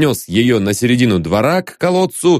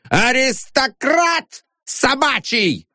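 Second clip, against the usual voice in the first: high, slow mocking shout; shrieked insult; 13 semitones higher, slower than usual. A narrator's reading. Janitor shrieks insults before the gathered onlookers. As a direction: shriek it at the crowd. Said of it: "вскрикивал дворник".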